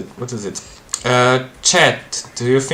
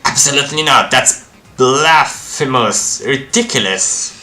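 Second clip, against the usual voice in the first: outraged refusal; 2 semitones higher, 4 dB louder than usual. Acted. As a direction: refuse as if it were sacrilege. Occult character refuses the demand.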